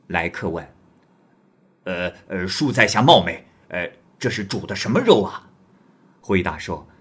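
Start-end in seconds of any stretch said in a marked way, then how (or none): 1.9-5.5 lightly voiced swaggering guest, louder; a hint of a rough wanderer asking; bold stranger. Guest asks about the meat, lightly gruff and louder.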